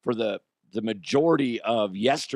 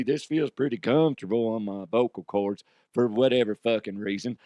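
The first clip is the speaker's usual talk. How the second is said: mock cowboy voice; Cowboy the Huff. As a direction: play a folksy cowboy chatting to the listeners. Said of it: "I could have been like Cowboy the Huff".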